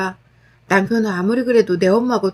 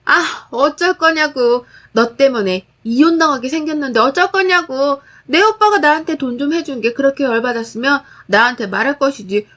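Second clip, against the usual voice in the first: lunge at her with frantic blame; frantic crazed voice; 2 semitones higher than usual. Acted. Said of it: "광기 어린 목소리로 말하더군요".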